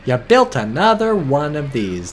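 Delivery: slow, loud, drawn-out restatement; loud, deliberate incredulity; emphatic disbelief. Real, not acted. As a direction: spell out the disbelief slowly and loudly. Slower repeat after the shriek.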